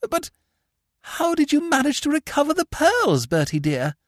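high, weakened, hesitant question; feeble, chastened aunt. A narrator's reading. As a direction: ask meekly, now all sweetness. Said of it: "She stopped and looked feebly at me".

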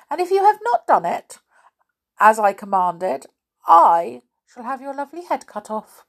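a lightly voiced king, high and loud; menacing king. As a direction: command her like a cruel king. King's commanding threat.

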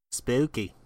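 eerie spooky voice. Pretend. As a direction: say it like a ghost story. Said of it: "I don't know why I said that that way".

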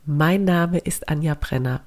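talking through a blocked nose; congested, sniffly voice; stuffy nose. Real, not acted. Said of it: "wie du hörst, ich bin total verschnupft".

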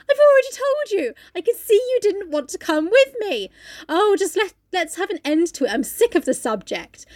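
high-pitched, exasperated mock wife voice. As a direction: squeak it out like a fed-up wife. Retelling the wife's exasperated outburst.

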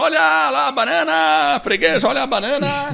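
high-pitched market stall hawker cry; market vendor calling. Retold or imitated. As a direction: call out bananas like a street-fair seller. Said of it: "O feirante tá lá gritando".

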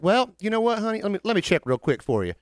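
put-on sweet girl. Sweet phone girl quoted.

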